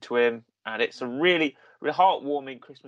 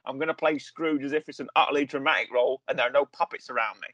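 lightly voiced film star impression; Michael Caine. Podcaster quotes the actor pitching Scrooge, lightly impersonated. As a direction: put on a hint of his famous voice. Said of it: "pull out my Michael Caine impression".

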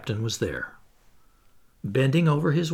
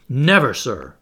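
hasty interruption; 6 dB louder than usual. Acted. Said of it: "hastily interrupting me".

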